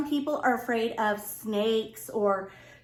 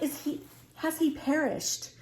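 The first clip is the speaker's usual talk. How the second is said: hushed, fearful; 3 semitones higher, 5 dB quieter than usual. Retold or imitated.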